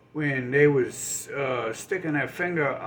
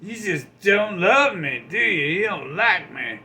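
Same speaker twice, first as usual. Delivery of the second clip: loud, higher wounded guilt trip; guilt-trip rant; 4 semitones higher, 6 dB louder than usual. Retold or imitated. Scorned liar guilt-tripping the poor giver, loud and higher. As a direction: shout the hurt accusation. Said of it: "they're like".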